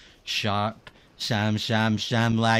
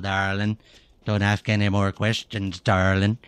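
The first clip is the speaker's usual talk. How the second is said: mock Irish accent; 4 semitones lower, 4 dB louder than usual. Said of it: "how I would say it if I was Irish".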